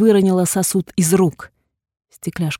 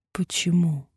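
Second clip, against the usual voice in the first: ordinary delivery, nothing marked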